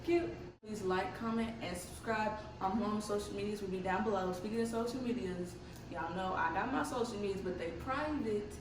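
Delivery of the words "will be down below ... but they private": talking with retainers in; wearing a retainer. Real, not acted. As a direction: speak around a retainer. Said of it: "Sorry about my teeth. My retainers are in right now".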